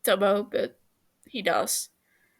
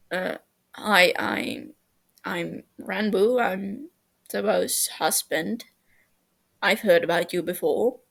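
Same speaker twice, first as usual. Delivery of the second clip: shy. Acted. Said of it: "hunches over, darting eyes".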